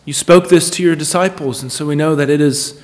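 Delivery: earnest, measured public prayer with pauses; congregational prayer. Real, not acted. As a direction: lead them in prayer, phrase by deliberate phrase.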